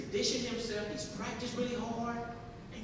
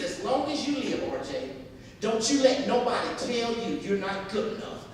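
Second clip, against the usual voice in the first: rousing mother; 6 dB louder than usual. Retold or imitated. Mother urges son on.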